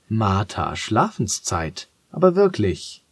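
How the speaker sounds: langsam, dann hoch und lauter bei aber wirklich; strenge Mahnung. Acted. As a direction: mahne mit erhobenem Zeigefinger. Vater ermahnt streng. (Vater mahnt Tochter streng zur Schlafenszeit)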